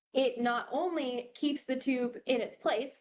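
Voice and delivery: talking through hiccups; interrupted by hiccups. Real, not acted. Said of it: "I have hiccups".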